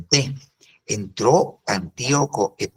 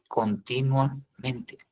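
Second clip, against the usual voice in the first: slow emphatic answer; 6 dB quieter, much slower than usual. Shown as a demonstration. Answers own question about tamiyit.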